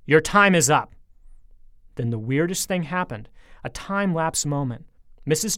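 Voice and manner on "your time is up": loud, final threat; monster's loud doom line; menacing shout. A narrator's reading. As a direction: bark it like a death sentence.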